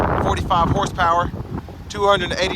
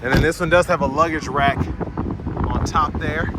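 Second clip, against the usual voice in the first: wind on mic; slower than usual. Real, not acted. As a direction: wind gusting over the mic. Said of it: "Jesus, wind".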